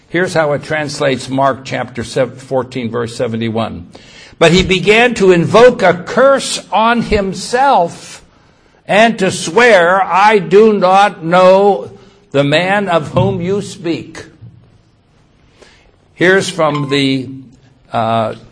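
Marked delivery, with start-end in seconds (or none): 4.4-14.3 loud, raised preacher's reading; emphatic scripture reading. A narrator's reading. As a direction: declaim the verse forcefully.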